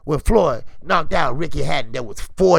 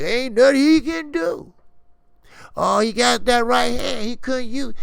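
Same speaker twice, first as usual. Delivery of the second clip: mocking the critics; 6 semitones higher than usual. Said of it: "They say".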